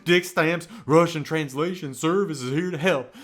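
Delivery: the ad name in a swaggering rock-and-roll-legend voice; impression of a rock-and-roll legend. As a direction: sell it like a rock-and-roll legend himself. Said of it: "just like a rock-and-roll legend himself".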